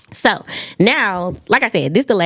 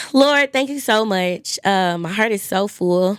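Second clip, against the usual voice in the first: prayer. Acted. Leads a closing prayer.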